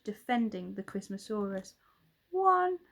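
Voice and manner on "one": high, loud hunter countdown; taunting hunter counts; menacing count. A narrator's reading. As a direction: count it down like a threat.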